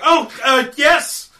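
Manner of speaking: high-pitched, startled begging; frightened pleading. Acted. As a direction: plead like someone held at knifepoint. Frightened stranger pleads at knifepoint.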